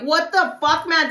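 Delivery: high, loud retold disbelief; alarmed outburst. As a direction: exclaim it as in a fight. Retells alarm during the fight.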